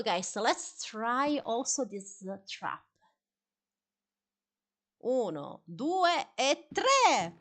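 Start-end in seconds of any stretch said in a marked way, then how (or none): 5.0-7.3 excited countdown. Real, not acted. Counting down a trap triggering.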